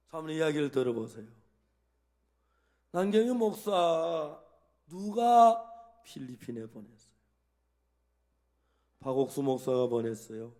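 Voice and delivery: loud, slowed questions pressing each point; loud questioning. Retold or imitated. Pastor questioning the weeping wife, loud and deliberate. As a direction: lead her step by step with emphatic questions.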